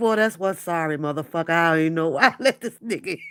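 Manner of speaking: very low mutter under the breath. Retelling what the pastor said: imitating someone muttering under breath. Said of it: "it's Pastor P under his breath".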